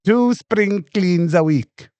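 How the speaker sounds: slow mock repeat; lightly imitated, slowed-down reality-show line; mimicking a TV contestant. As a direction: echo the clip, drawing each word out. Mimics line from the played clip.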